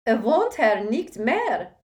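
loud, high frightened German cry; terrified cry. Acted. Woman at the door crying out in terror. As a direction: plead in panic. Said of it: "she cried".

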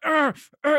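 short acted-out grunts of effort; imitated straining groan. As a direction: groan as if clenching your eyes shut. Mimics straining with eyes clenched shut.

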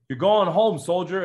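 high, loud cheerful call. Retold or imitated. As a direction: call it out over the rotor noise. Army crew on helicopter.

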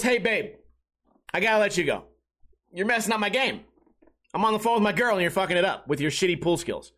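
a hint of a smug buddy talking down; lightly voiced gloating at the loser; buddy mock-taunting the speaker he just beat. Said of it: "here's how I interpreted it".

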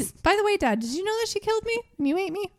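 put-on boy casually informs his dad, in a high chirpy kid voice; childish boy voice. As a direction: tell Dad the awful news brightly. Voicing the dead boy.

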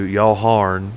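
"Y'all Harn" squashed into two words; Southern accent. Shown as a demonstration. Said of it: "was turned into".

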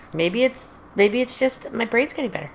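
talking with a mouthful of grapes; words round a mouthful of grapes; marbles in mouth. Real, not acted. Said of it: "sounds like you're talking with marbles in your mouth".

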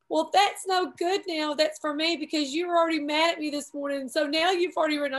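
mildly acted crying protest; mock tearful protest. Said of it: "I'm just crying".

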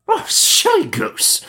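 very high, slow witch screech; exasperated witch. A narrator's reading. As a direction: scold the silly girl in a screech. Witch scolds Gretel.

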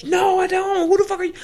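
high, loud indignant shout; hammed-up yelling refusal; mock outraged shout. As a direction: shout him down, scandalized he'd even ask. Retold refusal, ranting.

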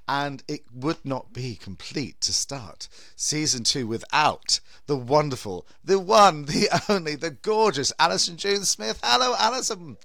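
big theatrical horror-host welcome; campy drag queen. Acted. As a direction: camp it up, swooping and grand.

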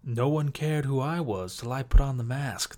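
a hint of Bane's slow menace. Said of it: "I can't do a very good Bane voice".

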